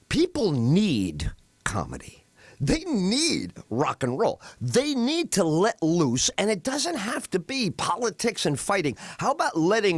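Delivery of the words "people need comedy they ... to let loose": hushed emphasis. Real, not acted. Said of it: "emphatic slow point".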